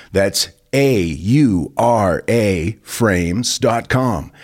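each letter spaced out, slow; spelled out slowly. Shown as a demonstration. Host reading an ad, spelling the web address slowly. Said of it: "spelling out the web address".

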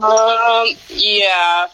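on speakerphone. Real, not acted. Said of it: "Put her on speaker".

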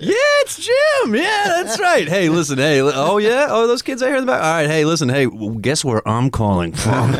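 high, loud, drawn-out hollering; hammed-up boasting down the phone to an old crush; gloating phone call. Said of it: "then you call girls that turned you down".

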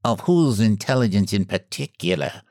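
even, cool and detached; cold reply. A narrator's reading. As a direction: ask it coldly. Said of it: "asked Tobermory coldly".

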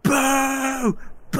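high, drawn-out boos; long crowd-style boo, trailing away. Acted. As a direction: jeer along with everyone. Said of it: "everyone's like".

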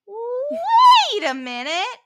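high, slow, dramatic sleuth voice; epic Nancy Drew. Acted. Carly realizing the scheme, high dramatic sleuth voice. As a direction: gasp out the discovery like a girl detective. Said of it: "Carly goes epic Nancy Drew mode".

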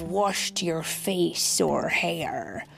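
slow, sing-song storybook reading; reading to children. Acted. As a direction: read the rhyme slowly to a child. Reads rhyming picture book aloud.

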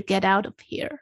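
"get out of here" said as one smooth run; linked pronunciation. Shown as a demonstration. Correcting the co-host's version, smoothly linked "get out of here". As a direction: glide through "get out of here" without gaps. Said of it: "美国人的连音".

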